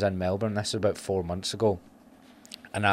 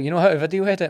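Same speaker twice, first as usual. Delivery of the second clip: high, louder mock Australian accent; bad Australian accent; 9 semitones higher, 5 dB louder, faster than usual. Coffee guy asking again, in a mock Australian accent. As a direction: fumble an Australian voice, pitched up. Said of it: "I can't do an Aussie accent".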